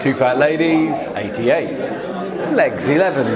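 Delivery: calling out bingo numbers, sing-song; lightly hammed-up bingo call; bingo caller. Always want to be a bingo caller.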